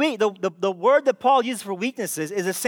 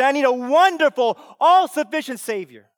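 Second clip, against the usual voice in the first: ordinary talk, nothing marked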